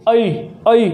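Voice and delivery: ऐ drawn out so अ glides into ई; diphthong demo. Shown as a demonstration. Teacher showing students the blended vowel, gliding demo. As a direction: let ऐ slide from अ to ई. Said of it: "जैसे ए को बोलेंगे आप ऐ".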